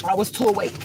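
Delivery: high, teary "too awake"; crying. Real, not acted. Telling viewers she felt too awake, crying. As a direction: say it through real tears. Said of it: "I hate when I cry".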